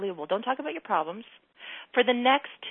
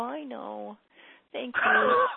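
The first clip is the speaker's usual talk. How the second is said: giggly, light; 2 semitones higher, much slower than usual. Shown as a demonstration. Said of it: "Just giggle and go".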